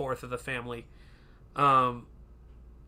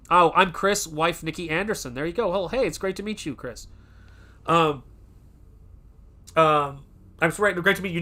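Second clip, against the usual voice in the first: higher, louder cheesy crooner greeting; 4 semitones higher, 4 dB louder than usual. Pretend. Host jokingly reads a listener's name, hammed-up crooner voice. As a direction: ham up a smooth singer's hello. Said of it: "allow me to drift into a singer's territory".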